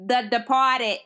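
put-on Boston accent, trying again. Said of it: "Try it one more time".

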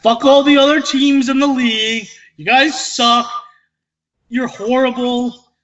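VA impression. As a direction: rant against everyone in an impression of an absent co-host. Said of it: "That's my V A impression".

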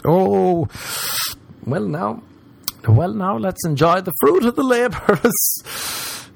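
high, slow, pleased-with-himself voice; mock delighted. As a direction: savour it like a hard-earned reward.

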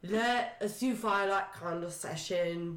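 a hint of drunken yoga teacher; muddled words, as if a little drunk; drunk Praline. Drunk woman pitches yoga to a panicking man, lightly slurred. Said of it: "drunk Praline explaining yoga".

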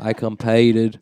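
mock Australian accent, amused. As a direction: put on Aussie vowels. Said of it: "I have the best Australian accent".

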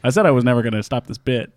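stubbornly held low character voice. Pretend. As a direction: stay down low, committed to the bit. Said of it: "still doing a lower voice".

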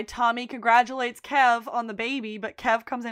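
normal talking voice

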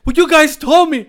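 very high, loud whiny voice; high hammed-up protest; squeaky excuse. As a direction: whine like a caught friend. Friend's defence in high voice.

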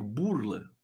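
burla said low and soft, for the viewers to repeat; teaching a word. Shown as a demonstration. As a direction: say burla slowly for them to repeat. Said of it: "Repitam comigo".

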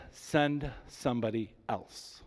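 slow, soft plea to be let off; a slow, quiet pleading take. Acted. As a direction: beg quietly, dragging the words. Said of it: "He pleaded with the Lord".

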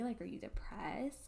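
whispered worried question. Retold or imitated. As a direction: hush it like a worried friend. Quoting worried people.

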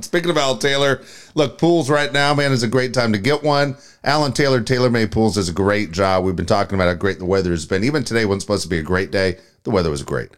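live sponsor plug, conversational patter; radio ad read. Real, not acted. Host plugging Taylor Made Pools, live ad read.

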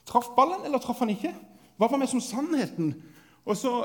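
ordinary delivery

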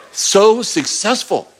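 slow, drawn-out praise at normal pitch; slow affirming God voice. Pretend. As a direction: stretch it out to affirm them. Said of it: "God goes".

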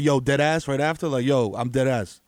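low-pitched mock mayor; slangy mayor. Imagining the mayor talking slang, lightly voiced low. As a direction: drop low for a hint of streetwise official.

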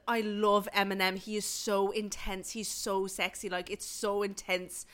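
imitated Irish friend gushing; Irish accent. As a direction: gush admiringly in an Irish lilt. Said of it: "Please tell this in an Irish accent".

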